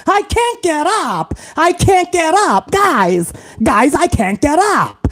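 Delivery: put-on whiny stuck kid, slow; a lightly voiced helpless kid pleading; kid from A Christmas Story. Mock stuck kid calling his friends for help. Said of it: "like the kid from the Christmas Story".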